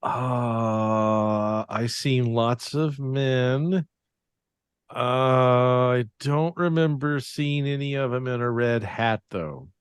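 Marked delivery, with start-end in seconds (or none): 0.0-8.3 slow, trembling, frightened answer; scared. Acted. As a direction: stammer it out nervously. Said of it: "I'm scared".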